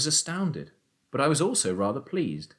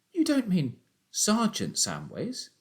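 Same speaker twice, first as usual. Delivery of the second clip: gasped; 11 semitones higher than usual. A narrator's reading. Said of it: "I gasped".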